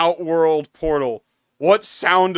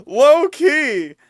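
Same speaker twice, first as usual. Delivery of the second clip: laughing; 11 semitones higher, 7 dB louder, much slower than usual. Real, not acted. Laughing at cartoon character.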